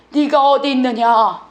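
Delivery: slow, drawn-out pleading call. Acted. God calls to the hiding Adam, pleading. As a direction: call out slowly for someone lost. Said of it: "애원하시는 거예요".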